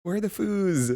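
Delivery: gleeful imitation of a bouncy friend; excited bouncy quote. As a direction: mimic her bubbly delight, laughing on the last words. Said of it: "Oh my goodness".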